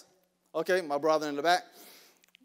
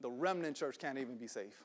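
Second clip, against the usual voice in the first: hushed dismay; 4 semitones lower, 8 dB quieter than usual. Real, not acted. Hushed dismay after the outburst.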